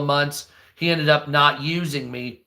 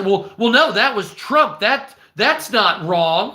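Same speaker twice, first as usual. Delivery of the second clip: higher, louder whiny mock excuse, slowing at the end; mocking defender; 5 semitones higher, 4 dB louder than usual. Mimicking a Trump supporter defending the spending, whiny mockery. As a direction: parody the excuse-maker.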